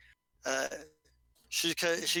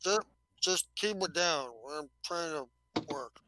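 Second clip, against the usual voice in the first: lightly mumbled Churchill-like slug voice; irritated slug scientist, mouth a little stuffed. Acted. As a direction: grumble as if something's in your mouth. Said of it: "He's like Winston Churchill with some stuff in his mouth".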